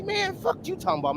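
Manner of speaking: high-pitched, incredulous comeback; retold indignant protest. Knocked-out fighter argues with the crying kid, mock indignant.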